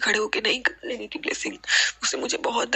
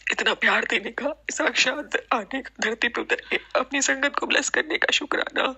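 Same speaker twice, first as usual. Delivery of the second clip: emotional; 3 semitones higher than usual. Real, not acted. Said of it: "मैं emotional हो रही हूँ".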